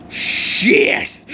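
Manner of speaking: high, harsh voiceless exclamation; alarmed curse. Acted. Villain seeing the hero's wrath awaken, alarmed. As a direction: hiss out a startled curse.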